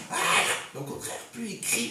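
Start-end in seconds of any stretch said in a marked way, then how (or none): 0.1-0.2 short mock scream; imitated yell. Teacher imitating the man who screams, mock yell. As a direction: let out a pretend screamer's cry.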